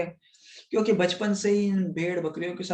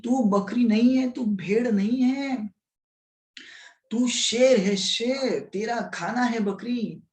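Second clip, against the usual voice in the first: higher, stern scolding with a whispered line inside; 4 semitones higher than usual. Acted. Big lion scolds the little lion at the pond, stern and higher. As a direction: scold him like an elder lion shaming a cub. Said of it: "ऐसे डांटने लग गया उन्हें बहुत".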